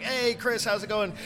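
friendly club owner. Retold or imitated. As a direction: greet him like a pleased regular. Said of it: "the owner looks at him and is like".

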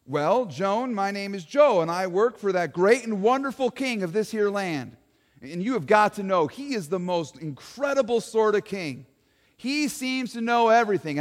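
lightly voiced folksy eyewitness; a hint of a folksy townsman talking to an interviewer; Joe the witness. Eyewitness Joe tells the interviewer Joan about his king, lightly voiced folksy.

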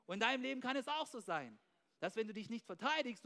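ordinary talk, nothing marked

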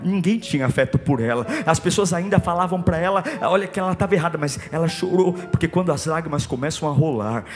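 low, soft, hushed retelling; intimate sermon storytelling. Acted. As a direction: draw them close, quietly.

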